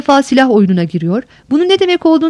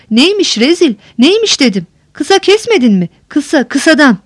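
snapping impatiently; 3 semitones higher than usual. Acted. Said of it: "Birden dikilip çıkıştı".

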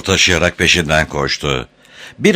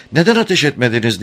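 imperious, brisk, higher-pitched question; commanding; 7 semitones higher, faster than usual. A narrator's reading. Safran questioning Penrod about not firing, commanding. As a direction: demand it quickly, like giving orders. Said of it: "buyurgan bir ifadeyle".

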